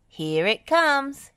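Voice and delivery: high, loud, stretched warning call; big drawn-out shout; yelling. A narrator's reading. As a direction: holler it out slowly. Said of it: "he yelled".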